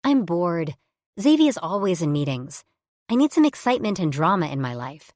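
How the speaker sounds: loud, bored whining; whiny. Acted. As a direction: complain like a restless kid. Tab whining for drama.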